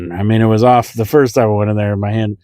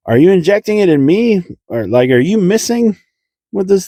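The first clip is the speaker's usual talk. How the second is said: incredulous; 10 semitones higher than usual. Retold or imitated. Retold complaint, no pain relief.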